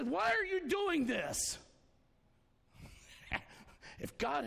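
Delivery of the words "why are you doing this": donkey voice. Retold or imitated. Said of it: "the donkey turns around and says".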